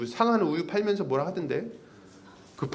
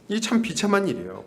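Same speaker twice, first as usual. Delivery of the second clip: usual speaking voice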